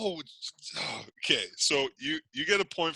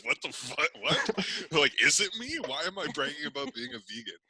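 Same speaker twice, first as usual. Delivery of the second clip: mock confused outrage; 3 semitones higher than usual. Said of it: "I wanted you to be like".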